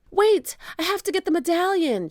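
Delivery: lightly voiced shouting boy; mild shout. A narrator's reading. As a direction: call out to his sister. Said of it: "shouted Jack".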